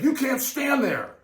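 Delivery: high, slow mock guard order; mock security guard. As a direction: lay down the rule like a fussy guard.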